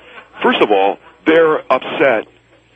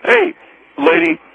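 high call. Acted. Caller calls out to woman.

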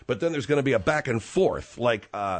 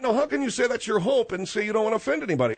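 heated; 9 semitones higher, faster than usual. Acted. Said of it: "you're getting a little extreme in your emotional response".

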